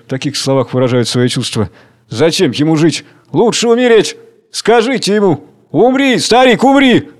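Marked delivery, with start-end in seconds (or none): 2.1-7.1 building from plain to a high, loud shout; mob jeering. A narrator's reading. Spectators howling at the condemned old man, building to a shout. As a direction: egg him on to die, rising to a yell.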